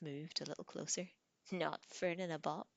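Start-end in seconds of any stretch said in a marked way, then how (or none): 1.5-2.7 laughing. Acted. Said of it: "he laughed".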